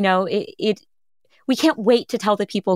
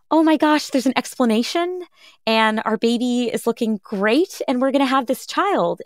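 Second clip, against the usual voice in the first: higher, breathless relief; relieved joy; 3 semitones higher than usual. Retold or imitated. Parents hearing the baby is fine, voice lifted in relief. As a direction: let the relief burst out. Relief after ultrasound news.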